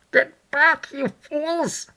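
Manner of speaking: high, loud, furious order; angry cry. A narrator's reading. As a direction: shout them back in anger. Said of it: "cried the muffled voice of Kemp".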